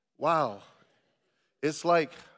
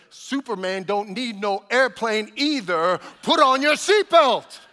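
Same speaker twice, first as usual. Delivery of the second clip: flight attendant's comeback; 3 semitones higher, 8 dB louder than usual. Retold or imitated. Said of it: "without skipping a beat".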